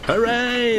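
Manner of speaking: high, loud whooping cheer; gleeful hooray. Acted. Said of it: "laughed Thomas".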